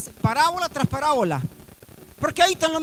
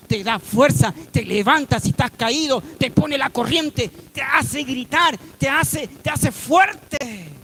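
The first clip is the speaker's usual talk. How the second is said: building preaching; 2 semitones lower, slower than usual. Real, not acted. Preacher builds a list to a climax.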